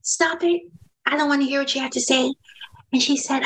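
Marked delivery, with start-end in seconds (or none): 0.0-2.3 un toque de coach que pregunta con calma; gentle coaching question. Retold or imitated. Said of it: "I said".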